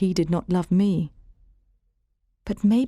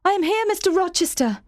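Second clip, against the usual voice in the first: crying out; 11 semitones higher than usual. A narrator's reading. Jane answering Rochester's voice in the night, high urgent call. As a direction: call out into the dark. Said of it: "I cried".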